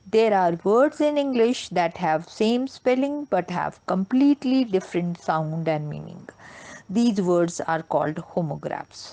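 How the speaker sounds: very slow, word by word definition; slow deliberate teacher reading; slow dictation. Shown as a demonstration. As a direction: dictate it slowly for notes. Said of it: "teacher dictating definition slowly".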